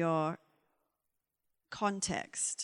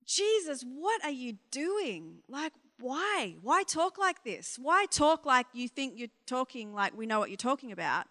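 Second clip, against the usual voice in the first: exasperated plea to Jesus; 2 semitones higher than usual. Pretend. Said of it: "shake my fist at the sky and be like".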